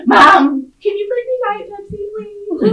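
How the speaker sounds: high-pitched freshman plea, imitated; pleading to mom. College freshman phoning mom for a soda, imitated pleading. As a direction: play up a wheedling request, high and quick.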